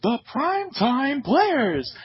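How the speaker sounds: drawn-out, rising ring announcer call. Retold or imitated. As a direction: boom it out like a wrestling announcer. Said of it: "So Lillian Garcia, uh, says".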